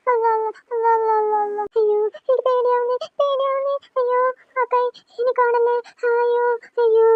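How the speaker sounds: drawn-out frightened wail; fearful wailing. Acted. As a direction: wail in terror of the hand. Child wailing in fear at night.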